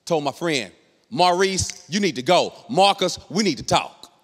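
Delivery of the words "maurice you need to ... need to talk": mildly angry, emphatic command; mad wife. Retold or imitated. Wife dismissing husband's friend, mad. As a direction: order them about, each name punched. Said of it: "She was mad".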